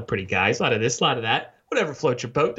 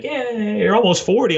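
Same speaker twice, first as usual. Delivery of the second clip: put-on blunt loud kid; 6 semitones higher, 9 dB louder than usual. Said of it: "He's like".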